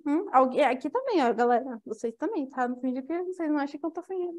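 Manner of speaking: usual speaking voice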